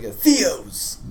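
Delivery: a touch of venom on the name, pitched slightly up; malicious. Acted. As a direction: spit the name with mild malice. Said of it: "He says it in f-, with such malice".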